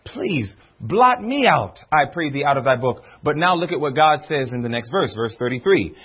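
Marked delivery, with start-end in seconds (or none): 0.0-3.0 slow, earnest mild plea; pleading. Acted. Preacher voices Moses interceding with God, mildly pleading. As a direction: plead slowly, letting it sink lower. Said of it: "here goes Moses pleading".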